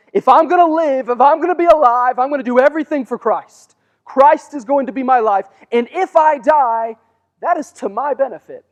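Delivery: excited. Acted. Preacher voicing Paul's bold outlook.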